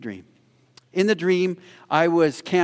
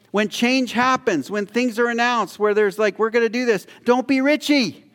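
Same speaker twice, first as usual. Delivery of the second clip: preaching at full force; 8 semitones higher than usual. Real, not acted. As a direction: drive the warning home from the pulpit. Preacher exhorting congregation.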